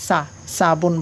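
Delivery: "সাবুন" with thin sa, like seen; Urdu seen sound. Shown as a demonstration. Teacher showing the Urdu reading, "সাবুন" with a seen's sa. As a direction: open "সাবুন" on a plain sa, not rounded so. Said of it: "উর্দুতে এটা সিনের উচ্চারণ চলে আসে".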